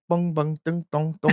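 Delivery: mock sing-song Lao syllables; Lao accent. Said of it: "Laotian accent".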